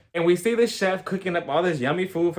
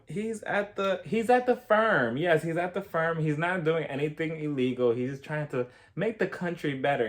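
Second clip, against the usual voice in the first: imitating Erica; 4 dB quieter than usual. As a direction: play Erica breezily brushing off the question. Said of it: "And Erica responds".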